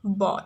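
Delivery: बॉल with a round open aw vowel; model word. Shown as a demonstration. Teacher reading a spelled word aloud for students. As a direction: say बॉल clearly with aw. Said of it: "किसका pronunciation हो रहा है".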